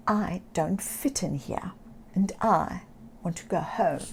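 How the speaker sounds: soft whispered sad confession; small sad voice. Acted. Little Oscar telling the seagull why he's sad, soft whisper. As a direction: say it small and lost. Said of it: "lost sad cat".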